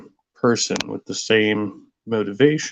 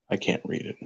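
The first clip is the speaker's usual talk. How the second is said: whispered aside; 9 dB quieter, faster than usual. Real, not acted. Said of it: "quiet unvoiced aside".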